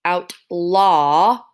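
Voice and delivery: OUTLAW in stretched syllables, open aw ending. Shown as a demonstration. Teacher showing there is no L, drawn out. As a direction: draw out "Outlaw" with no L at the end. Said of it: "doesn't end with it".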